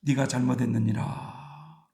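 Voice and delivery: slow, low and soft divine verdict; lightly voiced God, slow and solemn. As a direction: draw it out as God's gentle correction. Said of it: "그런데도 하나님은".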